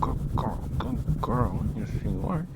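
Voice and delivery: put-on loud, sing-song good-girl voice; gushing pet praise. Praising Ninetale like a pet, loud gushing pet talk. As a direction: hype her up like a proud dog owner.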